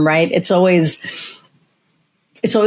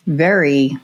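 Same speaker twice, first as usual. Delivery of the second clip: slowed-down speech; much slower than usual. Shown as a demonstration. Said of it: "and I was speaking".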